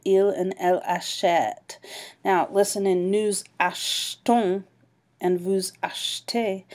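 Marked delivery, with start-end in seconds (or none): 2.2-6.6 nous achetons and vous achetez with the E nearly swallowed; silent E demo. Shown as a demonstration. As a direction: let the E in achetons and achetez almost vanish. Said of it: "You don't really even hear that E".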